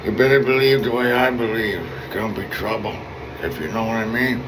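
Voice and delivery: a light hint of a Godfather mobster; mock Godfather. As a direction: lightly play the menacing Mafia don. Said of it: "I put a little Godfather on it".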